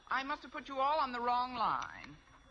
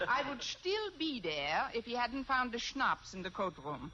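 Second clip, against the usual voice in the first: fake German accent. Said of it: "If I can do a decent German accent".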